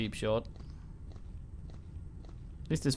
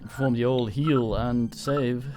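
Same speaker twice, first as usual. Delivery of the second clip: slow, louder mock announcement; announcer voice; 5 dB louder, slower than usual. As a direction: announce it like a ritual. Announcing routine action.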